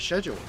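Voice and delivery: "schedule" starting with sh, British style; British pronunciation. Retold or imitated. Passing on how British people pronounce it, "schedule" with sh. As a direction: show the British "schedule", sh at the front. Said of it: "it's pronounced sch".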